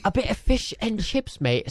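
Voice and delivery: mock English accent, chirpy; a hint of Cockney. Showing off his English accent to friends. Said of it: "I can do this one pretty well".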